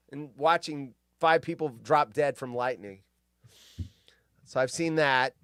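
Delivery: normal talking voice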